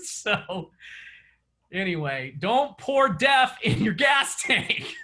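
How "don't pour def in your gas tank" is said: laughing warning. Real, not acted. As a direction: call it out through a laugh.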